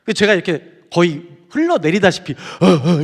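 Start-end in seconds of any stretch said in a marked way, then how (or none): 2.3-3.0 short mock sobs; imitated sobbing. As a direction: imitate gasping sobs while collapsed. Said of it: "이렇게 울고 있었거든요". (흐느끼는 소리 흉내)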